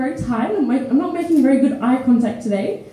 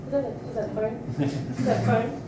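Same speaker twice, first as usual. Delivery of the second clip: a hint of an irritated teacher; snapping at an audience member over a phone; strict teacher; 5 semitones lower, 5 dB quieter than usual. Comic performer calling out a phone user, mock stern. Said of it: "I'm the Nazi teacher that gets pissed off".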